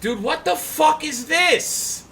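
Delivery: high, slow, disbelieving cry; shocked. Real, not acted. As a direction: exclaim it in disbelief, slowly. Shocked at screen.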